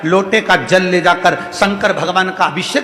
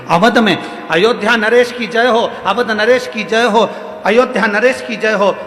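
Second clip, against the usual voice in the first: hailing the king; 3 semitones higher than usual. Acted. Woman hails the king.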